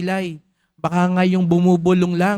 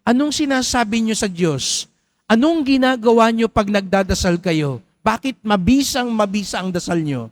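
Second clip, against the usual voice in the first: eager questioner; 4 semitones higher than usual. Retold or imitated. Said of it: "Sabi sa kanya, nung tinanong siya".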